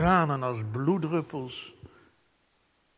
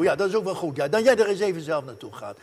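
usual speaking voice

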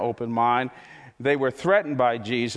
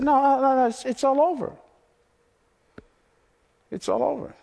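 angry dismissal; 10 semitones higher than usual. Retold or imitated. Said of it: "No, they're angry".

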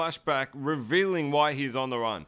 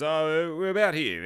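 put-on vague reply, pitched up; mock vague answer; 3 semitones higher, 4 dB louder than usual. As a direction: imitate someone unsure of the spot. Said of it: "he's being really vague".

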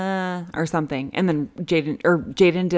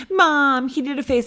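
high-pitched imitation of a small child; tattling little kid; 6 semitones higher than usual. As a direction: whine to mom about a sibling.

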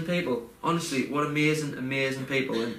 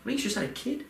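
much higher, bubbling with joy; delighted excitement; 7 semitones higher than usual. Real, not acted. Telling the host his friend just had a kid, giddy and high.

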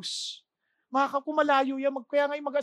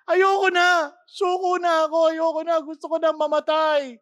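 despairing cry; 3 semitones higher, 8 dB louder than usual. Retold or imitated. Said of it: "sabi niya, sa pagkatakbo niya".

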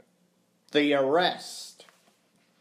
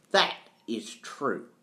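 reluctant admission; 4 semitones lower than usual. Acted. Accused man reluctantly admits it.

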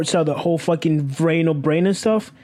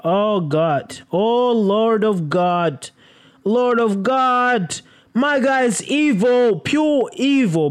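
slow dramatic awe; 5 semitones higher, much slower than usual. Real, not acted. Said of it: "dramatic slow reaction".

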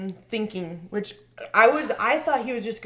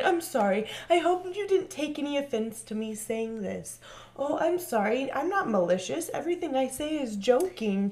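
mock apology; 5 semitones higher than usual. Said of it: "everyone starts apologizing".

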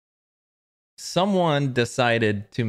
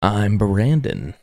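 loud, slow self-introduction; 5 dB louder, slower than usual. Real, not acted. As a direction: boom the name out. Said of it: "I think I was really loud there".

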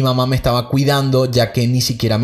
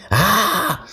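mock scream; 8 semitones higher than usual. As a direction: act out waking with a restrained scream. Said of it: "Me levanté gritando". (grito agudo fingido, sin volumen)

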